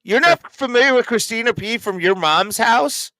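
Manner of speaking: high, loud disbelief; loud sharp voice. Real, not acted. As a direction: shout it in total shock. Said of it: "Why are you yelling?".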